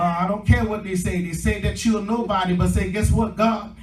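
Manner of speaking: rousing sermon delivery with stretched key words; preaching. Real, not acted. Preacher promising the congregation a new start, preaching with drive.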